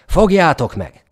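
hangos, magas parancsszó; kiáltsd oda az embereknek; uszító kiáltás. A narrator's reading. (uszító, hangos kiáltás)

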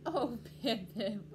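loud, slow, amused chuckle through the words; laughing mommy. Acted. Mommy laughs at her little penguin, amused. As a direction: laugh fondly at your little one. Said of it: "laughed his mommy".

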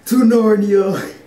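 high, drawn-out mock scream; retold scream. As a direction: imitate your own scream, stretched out high. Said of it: "I screamed".

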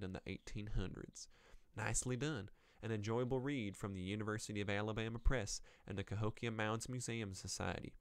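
put-on mild Southern US accent for a reviewer. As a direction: read it out with a light Southern twang. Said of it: "we'll give her a southern accent".

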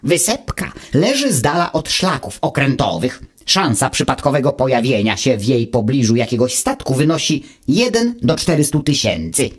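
lightly voiced know-it-all little machine, calm; a hint of a smug gadget lecturing; Wuch's voice. Wuch answers Automateusz from his ear, lightly voiced and calm.

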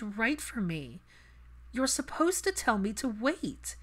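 earnest, rising frustration toward her mother; Hermione's voice. Acted. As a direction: Hermione telling her mother what she should say, mildly heated.

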